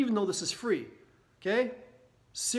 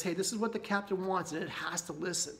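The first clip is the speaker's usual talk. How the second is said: lower, softer, fading inner voice; lightly voiced unconscious mind obeying; 4 semitones lower, 7 dB quieter than usual. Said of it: "your unconscious mind with that emotion says".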